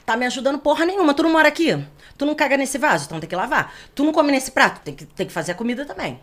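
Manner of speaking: brisk scolding, fast at first; scolding husband. Retold or imitated. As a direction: tell him off like a fed-up wife. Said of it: "E eu falava assim".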